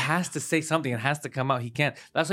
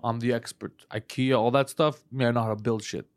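low mock bragging; 4 semitones lower, 4 dB quieter than usual. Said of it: "He was like".

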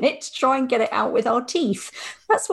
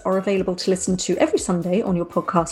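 measured presenter's outro read; scripted podcast sign-off. Real, not acted. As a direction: read the closing notes to listeners. Reads the show's closing script.

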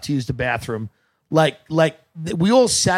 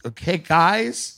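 high, slow coaxing pilot; a hint of a pilot talking to kids; mocking pilot voice; 5 semitones higher, much slower than usual. Comedian imitating a pilot's coaxing affectation. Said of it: "with that exact affectation".

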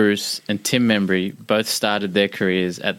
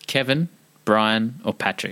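put-on Irish accent; 2 semitones higher than usual. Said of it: "doing a, an Irish accent tonight".

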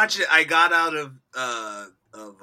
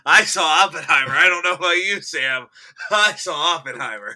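mock bragging; 6 dB louder than usual. Taunting friend about Oppenheimer.

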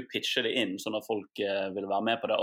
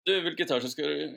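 acted boss's lift greeting, raised pitch; Eirik Ingstad; 5 semitones higher, 4 dB louder than usual. Boss greets employee in the lift, playful role-play. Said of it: "jeg er Eirik Ingstad, vår sjef og prosjektleder".

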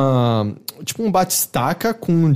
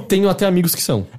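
mock defensive quote; 5 semitones higher, faster than usual. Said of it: "a resposta dele foi basicamente".

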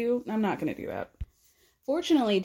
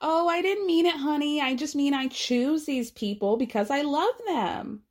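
mock sweet excuse; 5 semitones higher than usual. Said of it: "it's gonna turn into a thing like".

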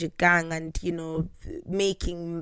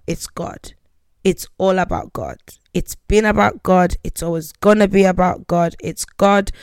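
fervent new convert; 6 dB louder than usual. Retold or imitated. Declares her faith fervently.

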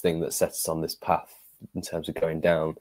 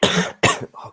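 coughing fit; 6 dB louder than usual. Real, not acted. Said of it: "Sorry, I'm coughing a lot tonight".

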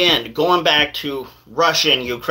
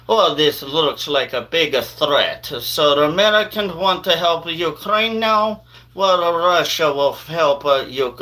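put-on little Russian accent. Russia reacting to America helping Ukraine, in a Russian accent. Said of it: "I had to do that little Russian accent".

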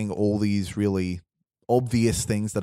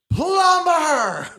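much higher, loud shrill cry; high-pitched villain; 8 dB louder than usual. Acted. Villain calling out to Mario in a high voice. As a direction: squeak it out like a tiny tyrant. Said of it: "and a high-pitched voice".

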